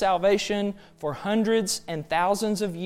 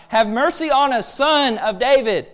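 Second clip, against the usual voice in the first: raised, imploring preacher's quote; crying out; 4 semitones higher, 5 dB louder than usual. Retold or imitated. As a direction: call out a plea, higher and a bit louder. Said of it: "they're crying out".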